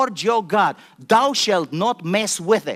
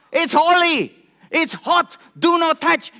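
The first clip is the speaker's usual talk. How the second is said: fervent preaching; 9 semitones higher, 4 dB louder than usual. Real, not acted. Preacher fires up congregation.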